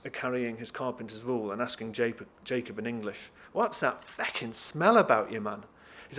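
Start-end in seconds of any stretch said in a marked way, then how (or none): 3.5-5.7 loud attempt at Irish slipping into Scottish; hammed-up, shaky-footed Scottish accent; terrible Scottish accent. Carpenter asks Jacob about the smell, botched Scottish accent. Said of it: "I apologise for my terrible Scottish accent".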